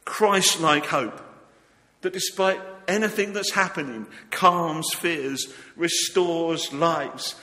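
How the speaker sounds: fervent sermon delivery; preaching. Acted. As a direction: preach it with conviction. Preaching at full force.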